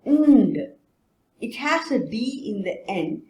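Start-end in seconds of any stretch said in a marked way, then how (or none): 0.1-0.6 Nd called out high and loud; a sound teacher stressing Nd; emphatic demo. Shown as a demonstration. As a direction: announce the blend clearly. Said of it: "the nd and ink sound".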